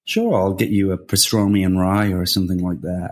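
put-on light American accent. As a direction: offer it like a New York deli guy. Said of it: "That's a good American accent".

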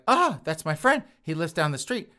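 lightly hammed-up sudden recognition; mock recognition. Victim recognizes the thief.

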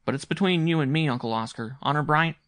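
lightly voiced boy swearing uncle to secrecy; grave young boy. A narrator's reading. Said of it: "said the boy gravely".

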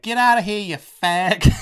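loud, high-pitched imitation of an irate mum; mock angry yell. Mum throwing a stranger out, shrieked mock fury. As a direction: yell it high, hammed-up outrage.

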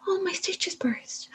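hushed near-whisper, slow and completely flat; numb and emotionless. Retold or imitated. Mother numbly telling the doctor her stitches burst, emotionless. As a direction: say it dead to the world, with no feeling at all. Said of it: "no emotion whatsoever".

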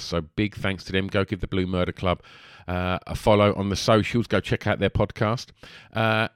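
rushed, no pause for breath; all in one breath. Real, not acted. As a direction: rattle it off without breathing. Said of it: "I just done that without taking a breath".

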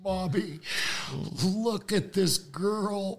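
high, drawn-out call for mommy. Retold or imitated. Son calls his mother to look at this girl, high drawn-out plea.

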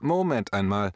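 lauter, bestimmt, Betonung auf Moment; firm coach's call. Retold or imitated. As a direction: setz nach wie ein Trainer, fest und laut. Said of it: "in typischer alter Trainermanier". (bestimmtes „Moment einmal“, lauter)

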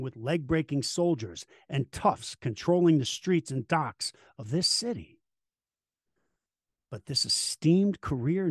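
grave documentary narrator read; dramatic narration. Acted. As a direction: tell it like a history documentary. Host reads dramatic documentary intro.

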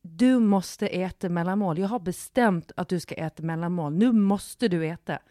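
scolding father. Retold or imitated. Dad insisting his crying daughter eat a snack, retold scolding. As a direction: imitate a parent laying down the law, hitting words hard. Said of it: "skäller på henne och bara".

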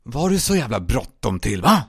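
menacing hiss; tense, hissed demand. Acted. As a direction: hiss it at someone pinned down. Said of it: "och så väser jag".

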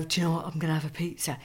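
whispering the guilty order; whispered. Retold or imitated. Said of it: "on a Monday and go".

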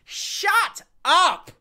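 loud, high furious yell; angry shout. Real, not acted. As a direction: shout them down in real anger. Ranting back at commenters.

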